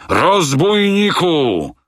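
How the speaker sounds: captain bellowing at Fogg; enraged shout. A narrator's reading. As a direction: roar the insult. Captain insults Fogg in rage.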